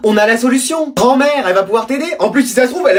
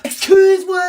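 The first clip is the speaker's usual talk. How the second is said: indignant excuse-moi; 9 semitones higher than usual. Acted. Running gag, offended retort.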